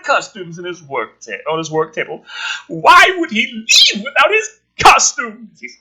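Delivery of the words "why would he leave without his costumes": sarcastic question. Pretend. Sarcastic aside on guard.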